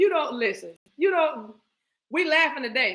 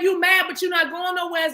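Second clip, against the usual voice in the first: shouted call; 4 semitones higher than usual. Acted. Calling out Zia.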